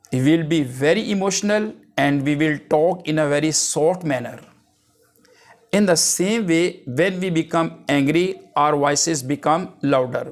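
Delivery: measured reading of an English example; slow dictation. Acted. Teacher giving an example to students, slow and careful. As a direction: spell it out slowly for the class.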